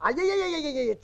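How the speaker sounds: rattled-off "aiyaiyai"; string the syllables out in exasperation; exasperated cry. Acted. Exasperated at friend's lament.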